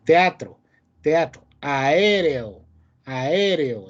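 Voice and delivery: "Teatro" and "aéreo" with neighbouring vowels in separate syllables; separated vowels. Shown as a demonstration. Teacher gives hiatus examples, separated vowels in "Teatro" and "aéreo". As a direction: keep each vowel apart in "aéreo", no gliding. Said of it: "están separadas".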